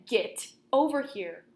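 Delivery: a wolf losing patience with the reader; insistent call. Acted. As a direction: call them over firmly. Repeats demand insistently.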